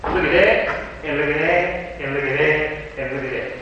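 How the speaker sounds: sing-song accusing look-at-that; building to a shout of accusation; God pointing out sins. Retold or imitated. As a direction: chant each sin at the finger. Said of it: "And he said".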